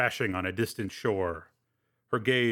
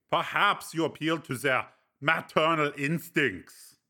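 higher, amused friend's voice; Breck, teasing friend; 4 semitones higher than usual. Acted. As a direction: needle him with dry amusement.

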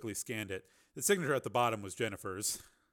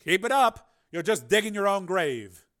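cold taunt; 7 semitones higher, 9 dB louder than usual. Acted. Carmen taunting.

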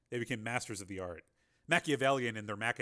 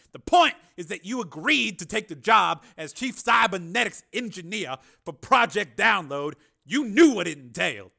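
much higher, louder Carmen voice; smooth excuse; 8 semitones higher, 12 dB louder than usual. A narrator's reading. Carmen excusing his broken deal, smooth. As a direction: brush it off politely.

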